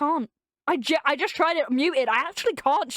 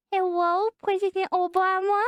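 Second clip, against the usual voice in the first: higher, cutesy uwu voice; sweet anime uwu voice; 6 semitones higher than usual. Pretend. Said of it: "like, uwu voice".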